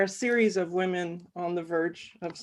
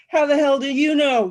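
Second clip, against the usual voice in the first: higher, louder exasperated demand; 6 semitones higher, 7 dB louder than usual. Acted. Exasperated guy lurching at the narrator, demanding an answer. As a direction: throw up your hands in disbelief. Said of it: "He's exasperated".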